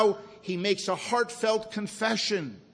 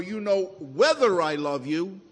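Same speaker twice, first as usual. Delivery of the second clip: "whether" punched louder and lifted; stress on whether; 4 dB louder than usual. Shown as a demonstration. Preacher showing what Peter did not say, stress on "whether". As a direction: hit "whether" to mark the doubt. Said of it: "Peter did not say".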